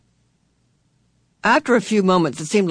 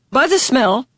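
high, lightly creaky answer; creaky, quirky visitor; 8 semitones higher than usual. A narrator's reading. Missus Whatsit answers Meg's question, high and creaky. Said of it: "A voice like an unoiled gate".

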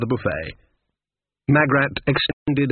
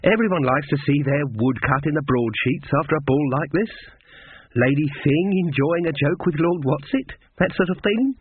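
lightly voiced eager tradesman, lifting at the end; a hint of a timid, obliging artist; shy little man; 3 semitones higher than usual. Small man explains woodcuts to the witches, shy and coaxing.

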